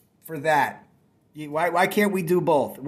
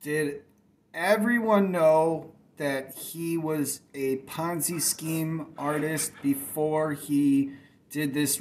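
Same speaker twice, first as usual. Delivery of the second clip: slow, deadpan mock revelation; slow sarcastic rumour spread about the rival; slower than usual. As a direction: drag it out like shocking gossip. Sarcastic fake reveal about rival.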